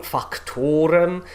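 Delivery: "factorem" sung slowly with weight on fac; stress on fac. Shown as a demonstration. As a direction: lean into "factorem". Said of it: "this is factor".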